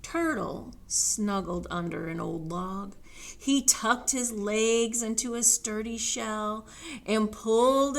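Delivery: measured read-aloud settling to a slow close; deliberate storytime telling; storybook narration. A narrator's reading. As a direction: read to children, easing down at the end.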